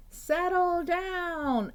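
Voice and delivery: high, loud, slow motherly order; stern mom command. Acted. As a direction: order him slowly like a cross mom. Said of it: "Exclamation point".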